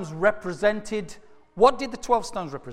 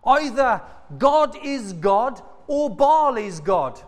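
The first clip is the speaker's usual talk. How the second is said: challenging; 3 semitones higher than usual. Acted. Elijah challenging the people in sermon.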